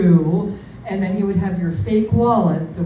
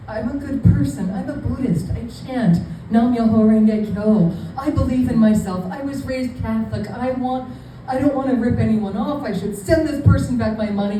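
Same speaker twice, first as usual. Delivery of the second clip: higher-pitched, mock-earnest inner monologue; earnest self-persuasion; 3 semitones higher than usual. Talking herself into sending the money back, mock-earnest. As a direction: talk yourself into doing the right thing.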